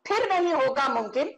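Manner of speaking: recited Hindi couplets, each line repeated; poetic recitation. Shown as a demonstration. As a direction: declaim the verse with flourish. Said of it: "you've thrown a poetic punch".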